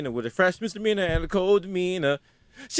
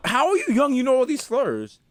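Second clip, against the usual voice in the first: 1 mock disbelief; 5 semitones higher than usual. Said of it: "I'm like".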